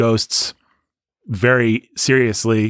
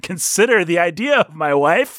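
put-on old joke delivery; 6 semitones higher than usual. Shown as a demonstration. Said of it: "in this old joke from a".

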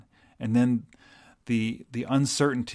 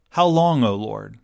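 rising, louder lament that falls away on Lord; lament cry; 5 dB louder than usual. Acted. Pastor voicing the psalmist's lament to the congregation, louder lament cry. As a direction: cry it out to God, then let it sink. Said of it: "The psalmist just simply asks".

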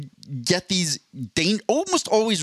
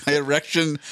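put-on German accent. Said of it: "It went from German to Connery".

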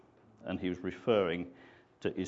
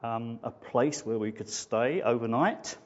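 broken, halting; slower than usual. Acted. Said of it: "spoke in a broken and halting way".

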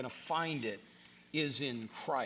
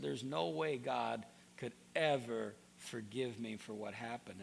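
quiet grief; 5 semitones lower, 4 dB quieter than usual. Retold or imitated. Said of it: "Here's what he said".

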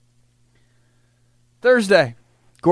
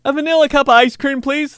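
meek high order; 13 semitones higher, 8 dB louder than usual. Retold or imitated. Meek order among friends.

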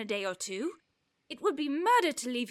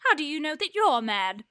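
tearful; 3 dB louder than usual. Acted. Argues, near tears.

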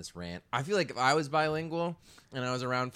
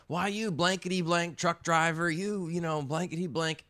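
higher, louder silly mock cussing; mock cursing; 8 semitones higher, 5 dB louder than usual. Parents jokingly cursing at a truck driver, higher and louder. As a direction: ham up a fake cuss at a trucker. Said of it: "laughing fest and silly jokes".

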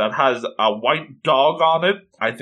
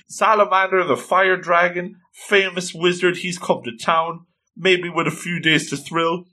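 raised-pitch excited chatter; excited fans; 5 semitones higher than usual. Acted. Girls hearing a famous wizard is in town, excited. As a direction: gush like thrilled fangirls. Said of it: "They're so excited".

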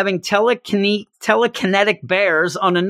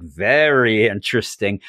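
intrigued Loki; 8 semitones lower than usual. Retold or imitated. Host retells Loki picking up the hammer, intrigued. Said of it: "he's like".

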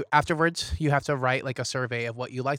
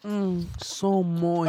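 slow sultry voice; mock sultry; 5 semitones higher, much slower than usual. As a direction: drawl it out sultry. Mock sensual about cookie.

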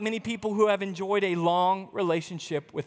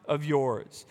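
slow, low, disdainful quote; a hint of contempt for the brother; cold dismissive; 4 semitones lower, slower than usual. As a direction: spit out that son of yours coldly. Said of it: "he said".

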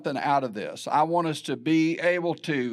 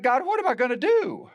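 desperate prayer; 7 semitones higher than usual. Retold or imitated. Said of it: "I'm just crying out to God".

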